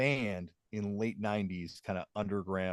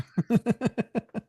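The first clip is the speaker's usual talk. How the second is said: loud laugh; 13 semitones higher, 7 dB louder than usual. Real, not acted. Laughing after joke.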